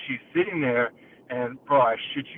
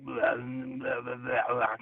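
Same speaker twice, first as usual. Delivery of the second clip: imitated muttering; 4 dB quieter, much slower than usual. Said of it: "kinda, like, muttering and shit".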